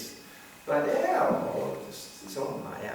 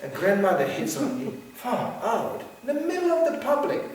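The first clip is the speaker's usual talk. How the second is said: laughing quote; 6 semitones higher than usual. Retold or imitated. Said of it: "she said".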